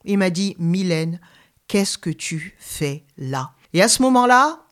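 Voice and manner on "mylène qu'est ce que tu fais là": slow, softened, unhurried question; gentle inner voice. Retold or imitated. Holy Spirit speaking inside a young believer at a nightclub, gentle voice. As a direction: imitate a gentle voice that asks without blame. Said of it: "Il m'a parlé avec une voix douce".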